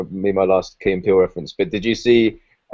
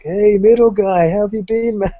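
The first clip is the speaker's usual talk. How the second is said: higher, slow hammed-up hello; cheery slow greeting; 12 semitones higher, 4 dB louder than usual. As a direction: drag out a jolly hello to the middle guy. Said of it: "It's like".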